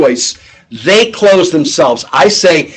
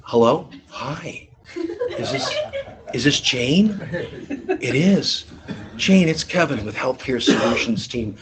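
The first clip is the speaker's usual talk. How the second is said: much softer, gentle opener; 4 semitones lower, 12 dB quieter than usual. Shown as a demonstration. Rep gently greeting a timid Jane, soft. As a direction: ease in softly, almost hushed. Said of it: "No, it's".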